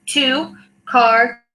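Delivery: two, car spelled out slowly as separate words; family pronunciation. Shown as a demonstration. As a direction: break it into two, car, which. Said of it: "my family doesn't say it that way. We say".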